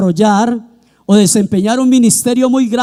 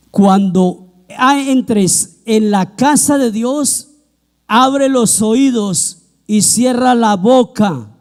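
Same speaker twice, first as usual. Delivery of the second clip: cita lenta y solemne; much slower than usual. Real, not acted. Cita bíblica de Salomón.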